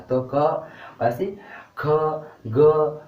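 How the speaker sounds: क, ख and ग sounded firmly from the throat; teacher sounds क ख ग loudly for the class, stressing throat consonants; throat sounds demo. Shown as a demonstration. Teacher to students, voicing क ख ग from the throat. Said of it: "तो मतलब कंठ का यूज हो रहा है".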